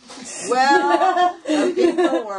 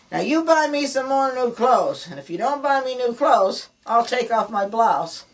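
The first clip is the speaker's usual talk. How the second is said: louder and higher, a hammed-up ultimatum; demanding wife; 3 semitones higher, 4 dB louder than usual. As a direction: lay down the law to the husband in mock anger. Wife demanding clothes, comic sketch.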